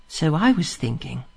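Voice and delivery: soft, dreamy, drifting voice; dreamy and languid. Acted. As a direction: say it half asleep, languid. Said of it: "dreamful and languid".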